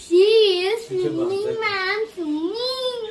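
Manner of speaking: soft, whimpering swimming; tearful answer. Acted. Scolded boy answers the teacher, whimpering softly. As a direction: say it near tears after the scolding.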